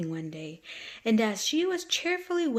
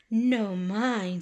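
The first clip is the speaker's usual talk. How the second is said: snapping beetle; 4 dB louder than usual. Acted. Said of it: "snapped the beetle".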